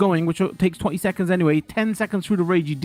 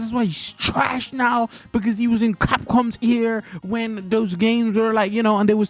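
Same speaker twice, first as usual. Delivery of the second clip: higher-pitched retold angry rant; mad ranting; 4 semitones higher than usual. Streamer replaying his rant about Daigo, mad. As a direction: replay your outraged rant. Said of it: "I was so mad. I was like".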